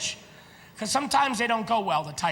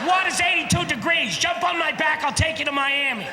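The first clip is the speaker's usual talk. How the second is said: exasperated shout; 4 semitones higher than usual. Real, not acted. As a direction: yell it scornfully at a fool. Mocking panicked passenger, shouting.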